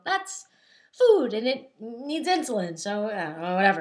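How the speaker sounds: a jump up on "That's", then slow and indifferent; apathetic shrug. Retold or imitated. Looking at a plate of food, careless and apathetic. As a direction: brush it off like you no longer care.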